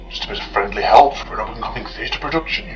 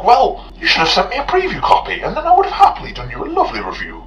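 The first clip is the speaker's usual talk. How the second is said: sarcastic; 12 semitones higher, 4 dB louder than usual. Real, not acted. Sarcastic rant at the producers.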